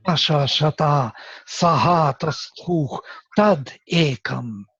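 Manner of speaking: slow accented Vedic recitation; Trishtup recitation. Shown as a demonstration. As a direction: chant the Trishtup verse slowly with its accents. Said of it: "for example, I will take this, Trishtup".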